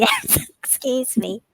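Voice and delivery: laughing while apologizing; giggling through an excuse me. Real, not acted. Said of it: "I can't say this without laughing".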